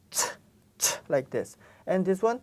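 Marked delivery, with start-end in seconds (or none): 0.1-0.9 "ch" with an explosive air burst; exploding ch. Shown as a demonstration. Teacher shows students the explosive "ch".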